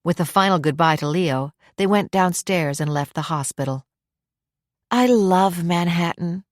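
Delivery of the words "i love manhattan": slow, contented sigh of words; dreamy, slow fondness. A narrator's reading. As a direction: sigh it out fondly, drawn out. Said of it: "Lori sighed".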